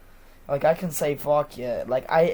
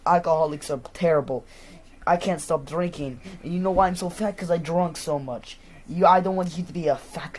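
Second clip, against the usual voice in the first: scolding dad; 2 semitones higher, 4 dB louder than usual. Retold or imitated. Acted drunken dad scolding the child.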